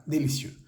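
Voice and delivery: Délicieux whispered, mouth a little closed; whispered model. Shown as a demonstration. Teacher whispers délicieux as a model for students. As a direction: breathe Délicieux with closed lips. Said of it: "con la boca un poco cerrada".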